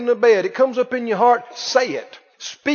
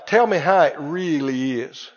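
low mocking skeptic; 7 semitones lower than usual. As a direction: lower voice of a doubting friend. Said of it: "don't give me that faith talk".

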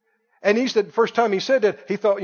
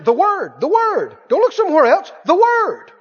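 each "The Word" higher and louder; rising preaching refrain; 8 semitones higher, 4 dB louder than usual. Acted. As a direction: build the refrain to a peak.

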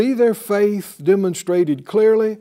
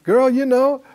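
mimicking casual talk; 5 semitones higher than usual. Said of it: "but people talk this way".

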